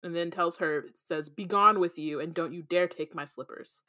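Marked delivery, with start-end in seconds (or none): 1.3-3.8 snooty voice. Acted. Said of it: "the elevator in a snooty voice".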